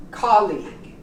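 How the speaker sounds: colleague ending in "leeg"; silent U. Shown as a demonstration. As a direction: close colleague on G, no U. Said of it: "You don't pronounce the U".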